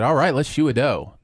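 "shoe a dough" with the first sounds of "do a show" swapped; retold swap of first sounds in "shoe a dough"; spoonerism. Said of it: "spoonerism is when you switch the first, uh, sound of words".

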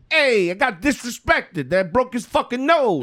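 mock the president's wounded pride; Trump impression. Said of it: "Oh, that's an amazing impression".

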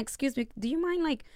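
soft, polite ask; polite request. Retold or imitated. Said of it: "Instead of me going like".

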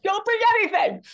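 beg, high and pressed; pleading. Retold or imitated.

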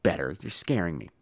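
low, soft mock-frightened reply; mock scared. Husband teasing partner about his voice, mock fear. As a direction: pretend to be spooked. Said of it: "I said".

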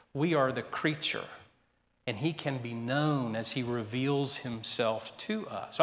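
mild, courteous disagreement; polite, kindly objection. Retold or imitated. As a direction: object kindly, keeping it soft and measured. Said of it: "politely, kindly objected".

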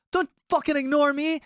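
high hammed-up drunk demand; drunk owner demanding. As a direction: imitate him insisting you take a taco. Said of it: "He's like".

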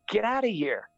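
out-of-breath runner's comic brush-off, retold; mock exasperation. Priest answering kids chatting while he can barely breathe, mock exasperation.

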